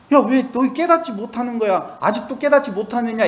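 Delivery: voicing Jesus. Voices Jesus questioning disciples.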